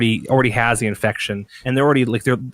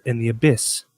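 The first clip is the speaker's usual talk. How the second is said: cult leader. Acted.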